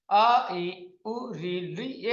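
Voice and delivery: "अ, इ, उ, रि, लृ" as short one-beat vowels. Shown as a demonstration. Teacher listing the short vowels, "अ, इ, उ, रि, लृ" each held one beat. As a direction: say each of "अ, इ, उ, रि, लृ" briefly, without lengthening. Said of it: "पांच ह्रस्व स्वर हैं".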